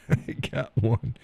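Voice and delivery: slow words through a chuckle; chuckling. Real, not acted. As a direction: laugh while saying it. Gleeful chuckle at his luck.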